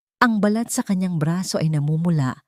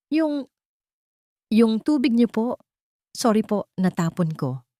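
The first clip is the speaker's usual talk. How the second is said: mahina at may sakit na dalaga; 5 semitones higher than usual. Acted. Nilalagnat na dalagang nagsasalita.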